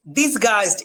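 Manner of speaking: teacher's model "dis-gaist" for ডিসগাইজড; pronunciation demo. Shown as a demonstration. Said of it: "এটার উচ্চারণ খেয়াল করেন".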